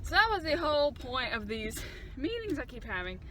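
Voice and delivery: breathless from the long walk; out of breath. Real, not acted. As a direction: talk while catching your breath. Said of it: "Oh, I'm so out of breath".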